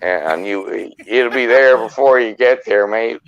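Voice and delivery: put-on a light Australian accent, ending on mate; easy Australian-accented banter. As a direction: slip into a mild Aussie twang. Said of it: "Oh, I went all Australian".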